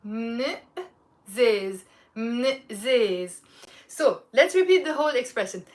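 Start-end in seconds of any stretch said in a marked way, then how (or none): 0.0-3.4 "من زيز" joined so the vowel attaches to "من"; linked phrase. Shown as a demonstration. Teacher demonstrating how to link the words, joined. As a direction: glide "من" straight into "زيز". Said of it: "linking it to the word before".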